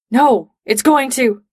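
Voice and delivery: urgent, stretched-out narrated shout; alarmed warning. A narrator's reading. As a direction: cry out slowly to stop a teammate. Panicked warning before power surge.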